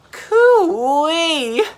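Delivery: very high, loud sing-song call; sea monster calling out. Acted. Mira the sea monster hailing the two friends, high loud call. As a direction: hoot it out like a big playful beast.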